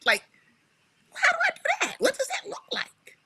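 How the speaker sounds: laughing disbelief. Retold or imitated. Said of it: "I said".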